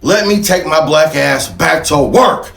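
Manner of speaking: hammed-up puzzled freed slave; freed slave's confusion. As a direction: play the bewildered freed man figuring out what to do. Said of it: "and was like".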